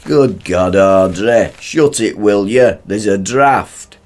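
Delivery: irritated. Acted. Husband snapping at wife's shouting.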